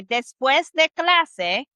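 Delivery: slow, careful Spanish; slow model phrase. Shown as a demonstration. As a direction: say each word slowly. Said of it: "you're gonna say".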